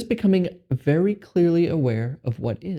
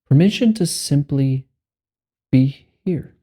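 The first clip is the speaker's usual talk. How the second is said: guided meditation; 4 dB louder than usual. Acted. Meditation guide giving listeners permission to be here, measured and spacious. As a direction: guide them unhurriedly into letting go.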